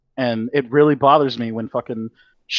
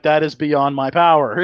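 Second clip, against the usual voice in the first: Shenron voice; 2 semitones higher, 4 dB louder, slower than usual. Pretend. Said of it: "you know what Shenron would actually say".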